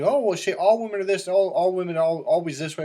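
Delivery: high, loud mocking voice of critics; whiny mock accusation; mocking accusers. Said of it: "a lot of people try to accuse me".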